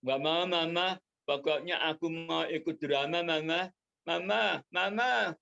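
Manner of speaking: put-on a stubborn kid nagging mom; whiny insisting. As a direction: keep pleading like a stubborn child. Woli insisting to his mother.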